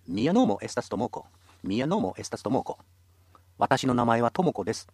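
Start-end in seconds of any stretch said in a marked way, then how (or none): 0.1-2.8 slow model reading. Shown as a demonstration. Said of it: "すでに学んだ知識で次は全部わかる".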